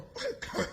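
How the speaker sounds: short breathy chuckle; a quick voiceless laugh. Real, not acted. Laughing at his own taunt.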